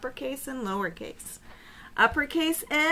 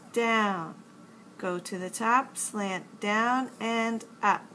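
slow exaggerated speech modeling; slower than usual. Shown as a demonstration. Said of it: "Let's learn how to make the uppercase N".

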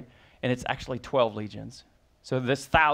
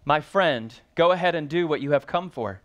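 tender; 4 dB louder than usual. Shown as a demonstration. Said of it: "notice his response".

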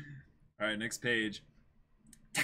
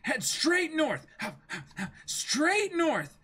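dopey pirate; 12 semitones higher, slower than usual. Acted. Reading pirate confused.

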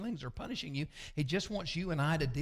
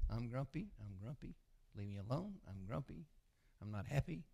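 mock grumpy sulk; 4 dB quieter than usual. Preacher imitating himself grumping at his wife all day, sulky and soft. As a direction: play your own grouchy self, pushing people away.

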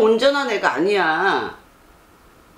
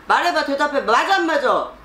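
stern demand; 6 semitones higher than usual. Real, not acted. Demands an answer from the son.

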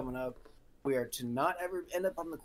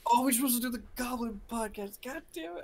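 goblin voice; 8 semitones higher than usual. Pretend. Joke about the wrong podcast voice.

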